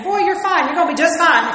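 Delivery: a hint of a dismissive father. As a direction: brush off a whining son. Voicing a dismissive father to son.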